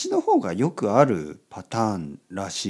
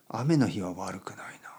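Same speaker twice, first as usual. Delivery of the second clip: whispering; 2 semitones lower, 5 dB quieter than usual. Real, not acted. Bedtime podcast, rainy night.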